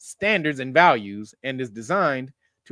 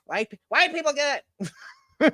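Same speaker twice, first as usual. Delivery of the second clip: slow, higher hammed-up chant; mock white voice; 8 semitones higher, slower than usual. Comedian mocking a brainwashed man, slow chant. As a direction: chant it like a programmed convert. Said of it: "talking like white folks".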